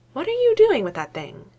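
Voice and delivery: high, alarmed question; startled, pointed demand. A narrator's reading. Mako alarmed by the creature.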